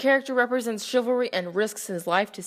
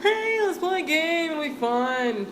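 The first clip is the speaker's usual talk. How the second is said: cheery innkeeper; 6 semitones higher than usual. Acted. Owner suggests a game.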